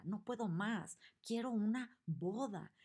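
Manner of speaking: the angry queen screams for a wedding, high and loud; angry shout. Acted. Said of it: "la tipografía nos grita".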